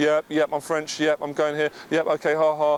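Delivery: mock flat, merely polite, uninterested tone. Contrasting an enthusiastic woman with an uninterested one, imitating flat, merely polite replies. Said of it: "I'm not really interested, but I'm, you know, just trying to be polite".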